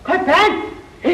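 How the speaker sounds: high, slow laughing shout; laughing disbelief. Acted. Laughing aloud at her gift of trousers. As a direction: burst out laughing at the word.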